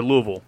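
Louisville said LOO-uh-vul; quiz pronunciation option. Shown as a demonstration. Host repeats the last choice, Louisville as LOO-uh-vul. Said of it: "How do you pronounce".

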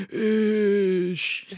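high, loud zombie moan; zombie groan. Acted. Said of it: "full on arms out going".

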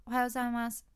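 flat, routine greetings rattled off; rote monotone. Shown as a demonstration. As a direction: say them on autopilot, meaning gone. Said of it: "棒読みになりがち".

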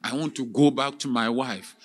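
earnest prayer. Acted. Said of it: "And he prayed earnestly".

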